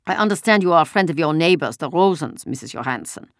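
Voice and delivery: soldier's angry interrogation, fading at the end. Acted. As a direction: press the accusation like an angry soldier. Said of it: "the soldier said angrily".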